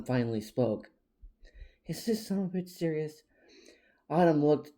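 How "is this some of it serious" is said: hushed incredulous whisper; disbelieving whisper. A narrator's reading. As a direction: whisper it to your sister in disbelief. Incredulous aside to sister.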